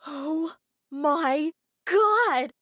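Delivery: high gasp then slow, loud "Oh my God"; shocked gasp. Acted. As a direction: gasp in horror. Reads shocking letter.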